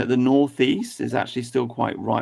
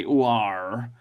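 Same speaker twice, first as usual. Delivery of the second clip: lightly voiced West Country farmer's "Ooh, ar"; a hint of a West Country yokel drawl. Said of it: "a West Country farmer would say".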